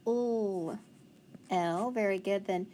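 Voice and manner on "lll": "L" as the held sound l, not the letter name. Shown as a demonstration. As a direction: draw out the bare l sound. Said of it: "So let's sound it out".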